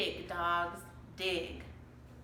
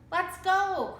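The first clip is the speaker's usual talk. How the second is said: much higher, louder urgent call; cried; 10 semitones higher, 6 dB louder than usual. A narrator's reading. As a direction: hurry her brother. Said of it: "cried Annie".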